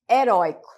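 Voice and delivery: heróico said clearly, he-ROI-co with open oi; sounding out a word. Shown as a demonstration. Teacher presenting heróico with a clear open oi. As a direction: pronounce heróico with the stress on rói. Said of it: "separar a palavra heróico".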